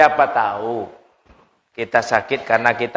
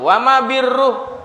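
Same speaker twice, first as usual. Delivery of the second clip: questioner voice; 10 semitones higher, 3 dB louder than usual. Retold or imitated. Voicing the companions' question.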